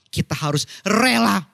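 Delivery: emphatic but not angry, punching "rela"; rising emphatic intonation. Real, not acted. Preacher urging the congregation to be willing, rising emphatic intonation. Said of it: "intonasi yang se-, naik ini bukan maksudnya saya marah-marah".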